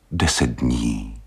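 slow, gentle plea; a wife pleading gently, slow. Acted. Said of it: "řekla prosepně".

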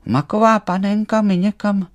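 high, loud alarm; startled. A narrator's reading. Emanuel finding the doll gone, startled and high. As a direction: call out in sudden fright. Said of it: "lekl se Emanuel".

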